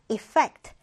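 efFECT, second syllable of "effect" stressed. Shown as a demonstration. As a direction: say "effect" with the weight on -fect. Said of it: "디귿절의 강세를 두고".

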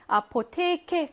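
아포테케 with the stress on 테. Shown as a demonstration. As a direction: lean on the long 테 in 아포테케. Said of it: "강세가요 여기 있어".

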